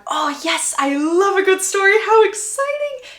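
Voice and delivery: high gushing delight, rising as it goes; so excited. Acted. Lady Danbury eagerly awaits the story, so excited. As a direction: gush with mounting, theatrical glee. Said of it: "Lady Danbury is now so excited".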